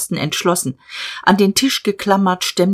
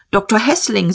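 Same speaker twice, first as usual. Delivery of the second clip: sharp correction; 4 semitones higher than usual. Acted. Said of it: "sagte Diederich scharf".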